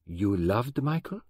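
slow, gentle question; gently. Acted. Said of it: "Poirot said gently".

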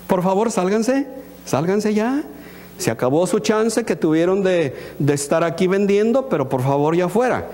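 mildly and meekly asking people to leave; an understated, courteous plea, imitating a too-gentle eviction; mock-polite request. Preacher imagines Jesus politely clearing merchants from the temple, mock-meek.

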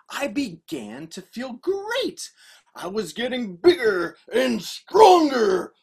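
lively, theatrical read-aloud; storybook narration. A narrator's reading. Author telling children of the fight, animated narration. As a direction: tell it with big emphasis.

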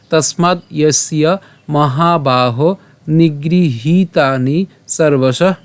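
slow, measured Sanskrit verse; shloka recitation. Shown as a demonstration. Teacher presenting today's shloka to learners, slow recitation. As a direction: recite the verse with drawn-out long vowels.

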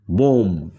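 বোম said "bom", ending on the m; বোম read like "bom"; বোম with silent b. Shown as a demonstration. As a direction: close বোম on the m, no b. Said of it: "আমরা কি পড়তেছি?".

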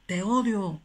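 high shout of te odio; boy yelling in anger; shouted hate. Retold or imitated. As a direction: hurl it into the canyon. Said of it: "empezaba a gritar el niño".

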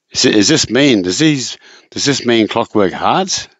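puzzled query, lifting "hearts" at the end; tongue-in-cheek question rising on "hearts"; questioning inflection. Shown as a demonstration. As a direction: ask it doubtfully, "hearts" going up. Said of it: "that's the way you say it".

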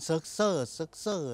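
เซิร์กเซอร์ ending in an "er" vowel; variant ending "ser". Shown as a demonstration. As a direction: say เซิร์กเซอร์ with "ser" as last syllable. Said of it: "เขาเรียกชื่อตัวเอง มันเหมือนออกเป็น".

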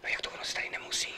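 hushed whisper. Acted. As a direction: whisper in surprise. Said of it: "Tak proč vlastně šeptáme?".

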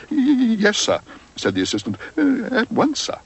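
high, stammering nervous assistant; flustered assistant. Acted. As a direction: stammer it out, rattled by the stare. Flustered assistant after hard stare.

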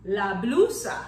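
"la blusa" said as Spanish lah BLOO-sah; Spanish word. Shown as a demonstration. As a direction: model "la blusa" in clear Spanish. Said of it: "my blouse in Spanish has a name".

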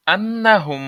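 measured recitation of আন্নাহুম with a sustained humming close; ghunnah in আন্নাহুম. Shown as a demonstration. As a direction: hold the nasal n and m in আন্নাহুম. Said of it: "হুম বলে গণনা করতে হবে".

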